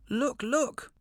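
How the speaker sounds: high, excited squeak; squeaking hare. A narrator's reading. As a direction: yelp it out to bait the lion. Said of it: "he squeaked".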